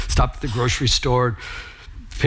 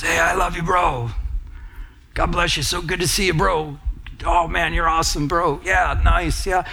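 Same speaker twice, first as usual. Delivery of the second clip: shallow bro greeting; 2 semitones higher than usual. Retold or imitated. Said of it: "Not just".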